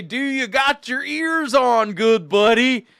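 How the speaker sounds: normal talking voice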